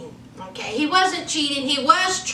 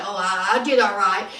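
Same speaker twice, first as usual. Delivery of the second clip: sheepish husband; 6 semitones lower, faster than usual. Retold or imitated. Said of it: "And he was like".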